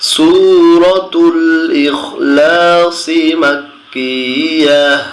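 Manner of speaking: slow, drawn-out melodic tilawah; stretched, reverent Quran chant; Quran recitation. Shown as a demonstration. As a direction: chant each syllable long and sung. Teacher recites surah heading slowly.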